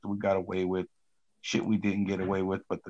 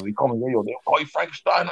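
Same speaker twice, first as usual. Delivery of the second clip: higher, louder, rushed mock correction; flustered correction; 5 semitones higher, 5 dB louder than usual. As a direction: nervously set the record straight. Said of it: "He goes".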